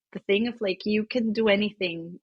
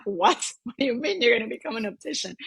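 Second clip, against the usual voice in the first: surprised; 5 semitones higher, faster than usual. Retold or imitated. Retells her startled reaction to mom.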